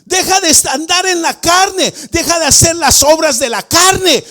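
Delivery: loud, high scolding call; mock rebuke to Adam. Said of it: "yo no le puedo decir".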